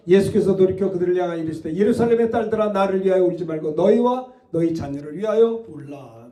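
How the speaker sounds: firm congregational reading; reading aloud together. Shown as a demonstration. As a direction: read the verse out together, steady. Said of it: "다 같이 크게 읽읍시다".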